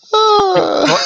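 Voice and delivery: one high squeaky chipmunk word; brief chipmunk squeak. Pretend. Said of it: "do I have to talk like that?".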